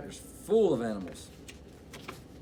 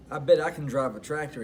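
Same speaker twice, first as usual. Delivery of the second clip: eager duck; 3 dB louder than usual. Acted. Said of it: "he said".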